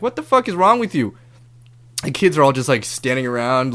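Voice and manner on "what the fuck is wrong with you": heated yell. Retold or imitated. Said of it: "Things are getting kinda heated".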